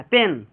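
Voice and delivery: "पेन" said with a short e; quick short vowel. Shown as a demonstration. Teacher models fast reading for students, short "पेन". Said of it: "जल्दी पढ़ना है".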